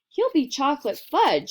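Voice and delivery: high distraught shriek. A narrator's reading. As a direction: shriek out your fear. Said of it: "shrieked Missus Gloop".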